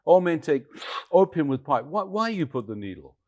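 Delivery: high, loud broken-English telling-off; imitated scolding Chinese man. Man demanding why the stranger used a needle, loud imitated scolding. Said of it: "The young, um, Chinese, uh, man looked at me".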